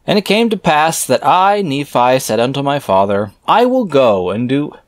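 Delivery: scripture reading. Acted. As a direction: intone the archaic words like a preacher. Reads scripture aloud.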